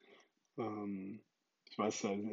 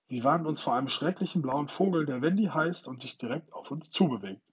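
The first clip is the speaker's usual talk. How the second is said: higher, louder, eager; excited warning; 3 semitones higher, 5 dB louder than usual. Acted. A lost boy warning the others, excited. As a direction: sound the alarm to the others. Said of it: "übersetzt einer der Knirpse".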